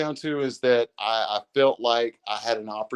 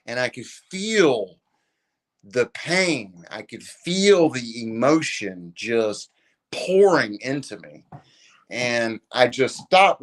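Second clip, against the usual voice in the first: slow, choked-up retelling; a touch of real emotion, slowing down; getting emotional; slower than usual. Real, not acted. Telling his friend about the stranger's hug, slow and lightly choked up. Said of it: "I get a little emotional talking about it".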